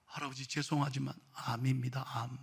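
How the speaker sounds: hushed, low delivery of bad news; apologetic, subdued voice; grave doctor. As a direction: break it softly and low, as a doctor would. Doctor gives cancer diagnosis.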